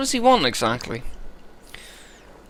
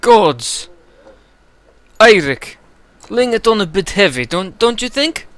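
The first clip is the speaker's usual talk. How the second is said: higher, louder, startled protest; protesting informant; 8 semitones higher, 5 dB louder than usual. Acted. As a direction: complain after the table is overturned. Informant protests table overturned.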